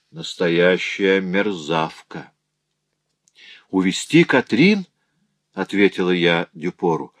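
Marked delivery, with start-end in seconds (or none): 3.7-4.9 sharply raised, incredulous question; shocked that he would take her daughter; outraged disbelief. Acted. Mother to her husband, outraged disbelief.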